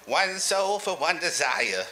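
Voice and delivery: slow, drawn-out pronouncement; a touch of slow ceremony; lightly voiced cult master. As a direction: intone it slowly as a masked ritual leader. Masked cult leader's pronouncement.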